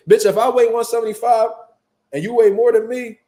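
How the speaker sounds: re-enacted heated telling-off; acted confrontation. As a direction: lay out the warning forcefully. Re-enacts confronting the bigger woman.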